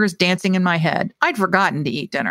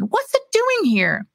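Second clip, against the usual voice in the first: disgusted woman; 14 semitones higher, slower than usual. A narrator's reading. Neva Jean disgusted.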